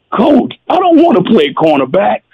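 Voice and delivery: quick, lightly tearful plea; hint of a crying player pleading with coach; mock tearful protest. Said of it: "geez, I cried".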